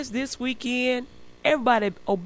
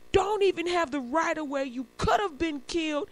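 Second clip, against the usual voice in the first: higher, softer mock scolding; mad cop; 7 semitones higher, 3 dB quieter than usual. Cop telling the pedestrian off, understated mad scolding. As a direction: scold with restrained exasperation. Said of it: "The cop is turning red, mad".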